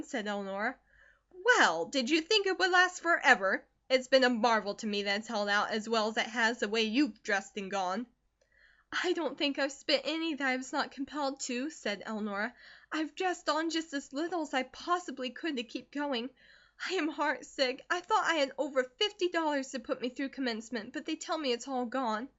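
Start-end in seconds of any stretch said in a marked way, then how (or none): 1.4-8.1 loud mocking mother, fading to a hiss; scornful mother. Mother mocks daughter's spent money, loud then hissed. Narrator voices Mrs Comstock. 8.9-22.3 put-on higher, earnest young girl; hurt daughter. Daughter tells mother money is gone, higher and hurt. Narrator voices Elnora.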